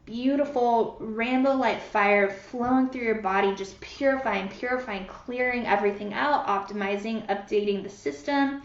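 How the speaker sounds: soothing meditation voice, unhurried; guided visualization. Acted. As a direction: paint the light for them calmly.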